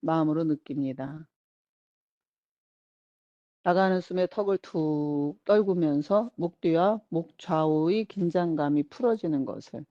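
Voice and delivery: unhurried relaxation-guide voice, pausing between instructions; guided relaxation. Acted. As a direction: lead them gently through letting go. Guides attention to releasing tension. (차분한 이완 명상 안내)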